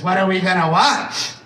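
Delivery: mock wife's demanding question; imitating wife. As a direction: act out the wife asking, drawing out the end. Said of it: "Like that".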